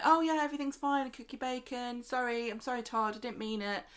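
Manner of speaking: high, quick, breezy apology; retold gushing apology. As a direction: imitate someone rushing to smooth things over. Retold gushing apology in love bombing.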